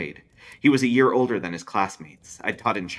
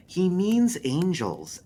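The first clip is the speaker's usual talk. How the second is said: dry cynic voice; 11 semitones higher, much slower than usual. A narrator's reading.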